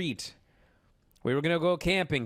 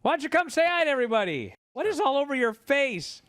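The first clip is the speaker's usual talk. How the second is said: calling out; 9 semitones higher, 3 dB louder than usual. Real, not acted. Calling his kids into the room.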